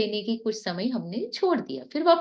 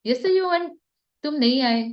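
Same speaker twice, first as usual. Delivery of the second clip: sharp scolding, a bit louder and higher; mock scolding of a student; 4 semitones higher, 4 dB louder than usual. Shown as a demonstration. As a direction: tell him off like an annoyed elder sister. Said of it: "अगर मैंने डांट के बोल दिया".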